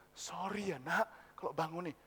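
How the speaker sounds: soft, apologetic, low; reluctant. Acted. Father phoning his child at midnight, reluctant and apologetic. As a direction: apologise gently, shy to impose. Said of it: "Papa jangan nadanya sungkan gitu".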